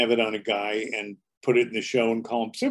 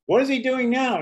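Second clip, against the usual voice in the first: higher, puzzled onlooker voice; curious woman; 10 semitones higher, 3 dB louder than usual. Retold or imitated. Audience woman watching through binoculars, higher and curious. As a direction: peer through binoculars, wondering.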